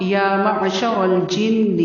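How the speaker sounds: معشر with the ع from the throat; الجن with nasal ghunna on the ن; throaty ain. Shown as a demonstration. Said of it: "عین کی آواز حلق سے".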